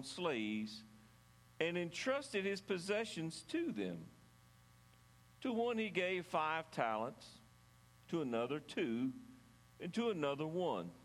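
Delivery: measured Bible reading aloud; scripture reading. A narrator's reading. Pastor reads the parable of the talents to church, scripture reading. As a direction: read the parable out deliberately, with pauses between phrases.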